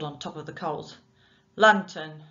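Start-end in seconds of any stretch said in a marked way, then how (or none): 1.6-2.2 loud gruff one-word grunt. Acted. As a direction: grunt the order. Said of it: "he grunted".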